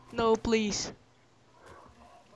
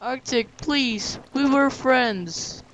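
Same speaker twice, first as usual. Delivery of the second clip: high-pitched play-acted pleading; wounded, hammed-up appeal; mock heartbroken plea; 5 semitones higher than usual. Acted plea to betraying friend.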